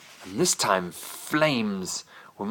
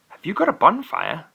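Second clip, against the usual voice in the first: put-on light girl voice; 9 semitones higher than usual. Emma voiced in bedtime story.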